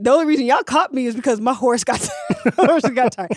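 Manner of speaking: laughing while telling it; words breaking into laughter. Retold or imitated. Laughing through the retold boast.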